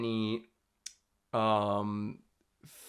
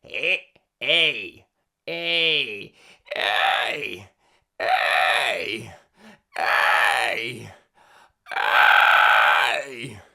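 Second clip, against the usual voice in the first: loud vowel drill; 2 semitones lower, 8 dB louder, much slower than usual. Shown as a demonstration. Vocal exercise vowels.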